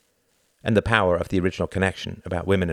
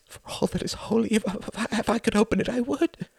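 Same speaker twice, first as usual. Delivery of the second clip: much higher, stammering plea; frightened pleading. A narrator's reading. The editor begs his torturers, high frightened plea. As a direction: beg through fear.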